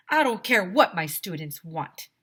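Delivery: loud, hammed-up principal shout; angry shout. Mean principal shouting at the ice cream man, loud. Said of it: "Doctor Carbles shouted".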